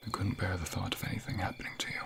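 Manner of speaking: quick, soft, anxious whisper; hurried whisper. Acted. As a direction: rush it out in a worried hush. Worried tender confession.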